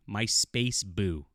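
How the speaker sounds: very slow, stretched space boo; drawn-out mock quote. Villain calling out to Holly Hunter, slow drawn-out mockery. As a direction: drag out my space boo like a cringey line. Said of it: "but he says".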